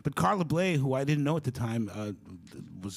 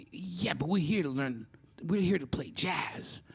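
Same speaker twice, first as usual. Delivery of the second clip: higher-pitched impatient correction; exasperated retort; 7 semitones higher than usual. Retold or imitated. James correcting the young player, exasperated. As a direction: set him straight, pitched up.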